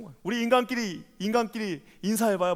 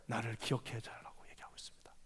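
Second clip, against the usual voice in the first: whisper; 5 semitones lower, 14 dB quieter than usual. Acted. Hushed close of verse.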